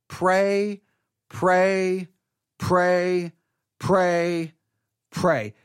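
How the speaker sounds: each word drawn out on a level tone; one word repeated slowly between measured pauses; relentless praying. Retold or imitated. Preacher recalling twenty-four hours of praying, relentless repetition. Reenacting day-long repetitive prayer.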